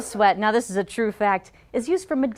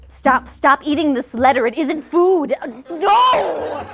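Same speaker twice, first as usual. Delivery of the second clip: louder and higher to a yelled no; rising shout; 4 semitones higher, 5 dB louder, slower than usual. Acted. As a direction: build to a panicked yell. Shouting at fat kids, rising.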